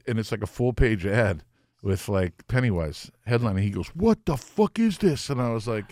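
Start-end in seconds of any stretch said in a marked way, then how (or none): 3.9-5.3 slow, much higher stunned voice; mock shock. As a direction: gasp it out at the ad. The singer shocked at ad.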